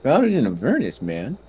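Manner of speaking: lightly voiced tinkering gnome inventor; a hint of a chatty gnome tinkerer. That's his gnome voice.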